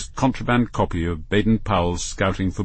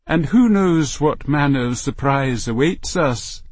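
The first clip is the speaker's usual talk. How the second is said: raised voice; 5 semitones higher than usual. Acted. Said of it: "here she raised her voice".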